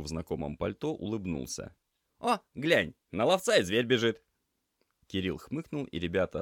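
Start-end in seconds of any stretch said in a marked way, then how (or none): 2.2-4.2 cheerful tomcat. Acted. Cat greets approaching girl cheerfully.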